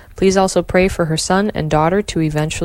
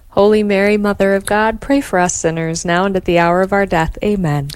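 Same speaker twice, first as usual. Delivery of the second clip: steady devout rosary response; prayer recitation; 2 semitones higher than usual. Acted.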